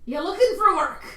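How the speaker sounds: a blacksmith calling out from his shop; friendly working man hailing a customer; gruff blacksmith. Acted. GM voices the blacksmith.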